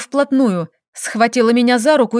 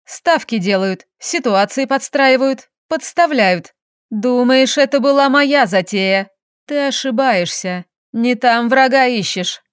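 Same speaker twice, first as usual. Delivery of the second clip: clipped mocking. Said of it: "отчеканила".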